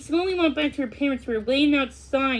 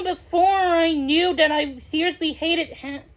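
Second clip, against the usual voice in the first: whiny; 5 semitones higher, 3 dB louder than usual. Acted. Kid complaining to mom.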